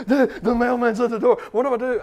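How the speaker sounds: a son panicking about the mailman, mock worried; worried boy. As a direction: play the kid, half laughing. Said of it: "he goes".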